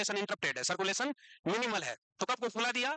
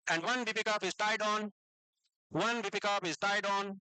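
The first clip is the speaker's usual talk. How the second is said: very slow, word by word; slow dictation; much slower than usual. Shown as a demonstration. Teacher dictating notes to students, very slow. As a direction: dictate so they can write along. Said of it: "अभी मैं रुक रुक के बोलूंगा".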